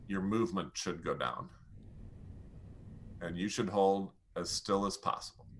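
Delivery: calm it right down; quiet stillness for the low point; settling down. Shown as a demonstration. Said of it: "your amount of movement".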